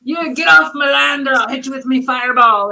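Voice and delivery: put-on weak Scottish accent; bad Scottish accent. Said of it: "I can't do Scottish accent".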